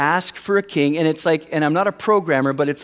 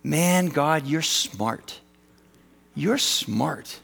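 quiet awe; 4 dB quieter, much slower than usual. Retold or imitated. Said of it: "I said out loud".

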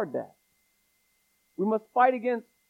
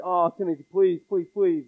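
earnest begging, a little louder; pleading plea; 3 dB louder than usual. Shown as a demonstration. Paul pleading with young Timothy, earnest begging. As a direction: beg him like a worried mentor. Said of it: "hear it in Paul's voice to Timothy".

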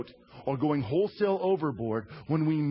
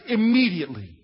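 emphatic; 2 semitones higher, 5 dB louder than usual. Real, not acted. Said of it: "how fast?".

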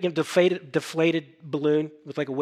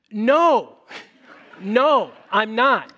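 a loud, higher-pitched panicked no; flustered refusal; 6 semitones higher, 7 dB louder, much slower than usual. Retold or imitated. Young Nathan refusing Brian's offer to preach, loud mock panic. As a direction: protest like a scared eighteen-year-old.

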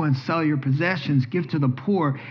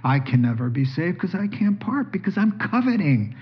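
higher, anguished lament of a sinner; mock despairing confession; 5 semitones higher than usual. Rich young ruler confessing his sin to Jesus, in higher mock anguish. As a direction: cry out your woe, pleading. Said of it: "so that he'll say".

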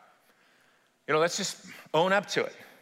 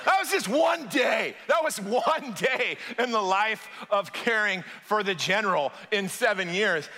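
emphatic preaching; 4 semitones higher than usual. Real, not acted. Preacher's emphatic punchline after laugh.

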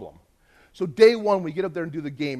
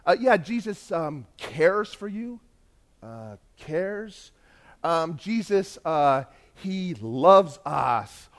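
halting interpreter; 4 dB louder, much slower than usual. Retold or imitated. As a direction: grope slowly for each word, with fillers. Retold halting interpreter translating.

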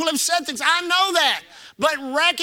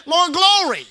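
louder climax; 5 semitones higher, 4 dB louder than usual. Acted. Preacher building repetition.

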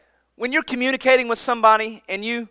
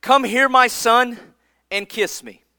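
tender invitation; slower than usual. Retold or imitated. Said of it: "his father Isaac said to him".

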